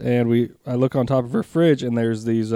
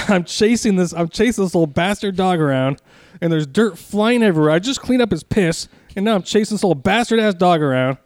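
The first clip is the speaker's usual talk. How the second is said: higher, worked-up recounting of the chase; heated retelling; 6 semitones higher than usual. Real, not acted. Owner recalling chasing the muddy dog, still heated. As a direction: let the anger come back as you tell it. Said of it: "You're still shaking".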